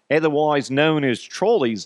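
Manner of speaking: hammed-up Australian accent. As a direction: slip into a mock Australian accent. Putting on Australian for local word.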